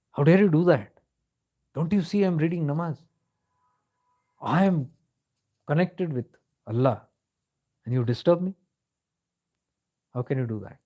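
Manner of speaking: offended holy man telling off a passer-by; indignant rebuke. Retold or imitated. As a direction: scold her for disturbing his prayer. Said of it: "like, upset".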